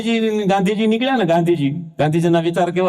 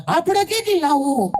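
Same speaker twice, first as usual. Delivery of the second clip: put-on much higher, whiny little boy; child's voice; 10 semitones higher than usual. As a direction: call out to mom like a small kid. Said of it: "એક છોકરો એની મમ્મીને". (મમ્મીને બોલાવતો નાનો છોકરો, ઊંચા અવાજે)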